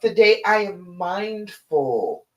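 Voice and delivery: slow, deliberate affirmation; affirmation to repeat. Shown as a demonstration. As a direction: say it slowly, like you mean it. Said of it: "so say it with me".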